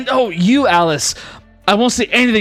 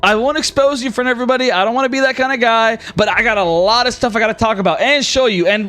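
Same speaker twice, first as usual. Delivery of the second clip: flamboyant god voice; 5 semitones higher than usual. Acted. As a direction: beckon everyone in like a showman. Rex calls party together.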